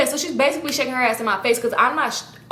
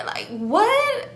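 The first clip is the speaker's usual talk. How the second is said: high whispered what; baffled whisper; 11 semitones higher than usual. Real, not acted. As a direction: whisper it in disbelief. Baffled aside about the eulogy.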